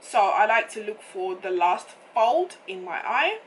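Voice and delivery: hoarse, croaky throat; rough morning voice; frog voice. Real, not acted. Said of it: "what's going on with my voice this morning".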